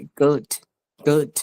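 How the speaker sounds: গুড with a slightly long oo; lengthened vowel. Shown as a demonstration. Teacher repeating the corrected word, lengthened vowel. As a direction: hold the oo of গুড a touch. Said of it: "একটু লম্বা হবে".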